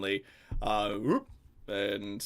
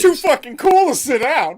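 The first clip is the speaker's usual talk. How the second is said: high, loud, laughing jeer; laughing mock jeer; 17 dB louder than usual. Real, not acted. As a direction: cackle it out as a joke. Mocking the edgy character.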